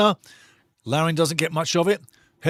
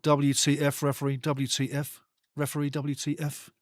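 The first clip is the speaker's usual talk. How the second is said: imitating muttered complaint; 2 semitones lower, 7 dB quieter than usual. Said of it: "Eckert stroking his chin to the referee".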